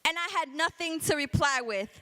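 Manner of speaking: rhythmic, driving slam poetry delivery; spoken word poem. Acted. Poet defending their Puerto Rican speech, rhythmic slam delivery. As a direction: punch out the syllables in a steady beat.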